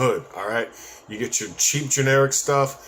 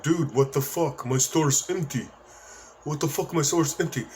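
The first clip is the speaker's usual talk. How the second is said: put-on Arab-American accent; 4 semitones higher than usual. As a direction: attempt an Arab-American accent while complaining. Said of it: "Arab dude born in America with an accent".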